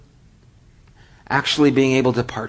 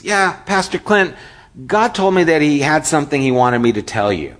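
put-on higher, eager teen voice; eager car wash boy; 3 semitones higher than usual. Car wash boy asking Pastor Clint for a word, eager and higher. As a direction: pipe up like a keen kid at the door.

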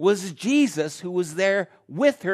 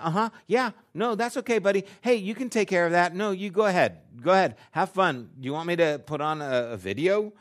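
distracted appeasing; 4 semitones higher, 4 dB louder, faster than usual. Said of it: "And so I, I just kinda".

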